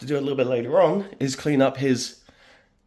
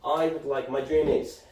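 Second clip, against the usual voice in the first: slightly raised mock cat voice; pet cat's voice; 5 semitones higher than usual. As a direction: lightly voice a demanding cat talking to Dad. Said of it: "He's like".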